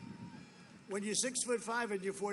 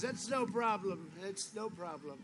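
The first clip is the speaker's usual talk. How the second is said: unbothered, cool; 4 dB quieter than usual. Retold or imitated. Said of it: "very extreme confidence".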